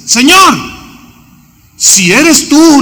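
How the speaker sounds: high, slow, unsure call; doubtful question. Acted. Peter calling to the figure on the water, doubtful. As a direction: ask as if unsure it's really him.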